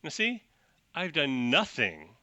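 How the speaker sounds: lightly voiced Edgelord protesting; pompous protest. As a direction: huff like an offended bigwig. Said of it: "And he goes".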